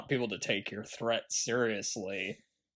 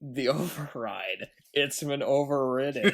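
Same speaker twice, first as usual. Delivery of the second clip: P=A; mocking quote; 2 semitones higher than usual. Shown as a demonstration. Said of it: "there's a lot of bad dialogue".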